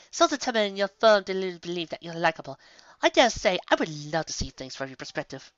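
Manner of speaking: high, smooth mocking lady; arch lady. A narrator's reading. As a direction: purr the insult smugly. Rarity's mocking comeback.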